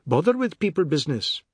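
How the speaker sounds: annoyed neighbour's aside; disgusted dismissal. A narrator's reading. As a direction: dismiss them huffily.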